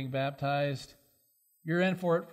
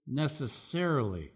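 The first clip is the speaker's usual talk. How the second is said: "necessarily" repeated on its own, every syllable clearly marked; stress on necessarily. Real, not acted. Preacher underlining the caveat to the congregation, stressing "necessarily". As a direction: land deliberately on "necessarily", pausing either side. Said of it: "I stress the word here".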